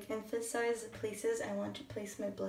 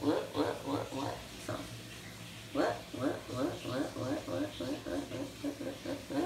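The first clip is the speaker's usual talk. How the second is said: playful whoop sounds; 5 semitones lower, 4 dB quieter than usual. Shown as a demonstration. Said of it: "I just go whoop".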